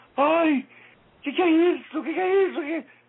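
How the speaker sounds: very high, very slow, loud, shrill weeping wail. Describing a woman's reaction after being called a name, imitating a woman crying. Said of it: "Aí a mulher sai chorando".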